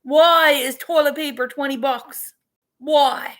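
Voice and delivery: high, loud exasperated rant at the prices; half-mock outrage at the shelf; exasperated outburst. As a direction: complain loudly in disbelief. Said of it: "I'm like".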